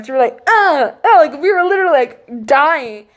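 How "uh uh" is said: high strained grunt on each hit; punchy mock grunts of exertion; imitated effort grunts. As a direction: act out banging with short grunts. Imitating effort of banging door.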